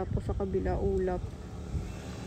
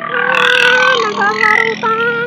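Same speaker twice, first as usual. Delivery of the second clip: excited; 9 semitones higher, 7 dB louder, much slower than usual. Real, not acted. Excited exclamation on the ride.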